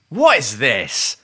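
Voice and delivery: imitating bin men. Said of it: "You're gonna say".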